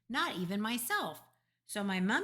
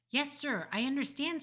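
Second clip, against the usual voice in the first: higher, flustered deference; voice gone funny; 7 semitones higher than usual. A narrator's reading. Father flustered by important caller, funny deferential voice. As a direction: answer the caller meekly, pitched up. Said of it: "his voice goes all funny".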